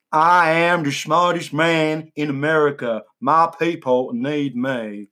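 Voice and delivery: lightly done slow George Bush drawl; slow, a hint of George Bush; George Bush impression. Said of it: "Why does he sound like George Bush".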